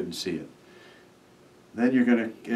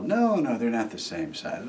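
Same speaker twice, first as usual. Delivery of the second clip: imitating kids yelling; 2 semitones higher than usual. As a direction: squeal it like an excited child, lightly. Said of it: "Kids yell".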